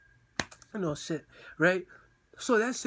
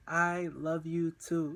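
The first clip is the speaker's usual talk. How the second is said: slow love reply; much slower than usual. Retold or imitated. Acting out her awaited reply.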